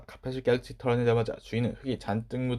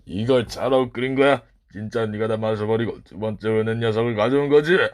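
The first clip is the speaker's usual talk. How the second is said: angry accusation; 5 dB louder than usual. Acted. Master accusing the boy over the tea, angry. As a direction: fling the charge at him.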